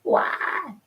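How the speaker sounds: high-pitched mock wail, long drawn out; hammed-up crying "why", stretched out; dramatic crying why. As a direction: wail it high like a melodramatic crier. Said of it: "A really dramatic why".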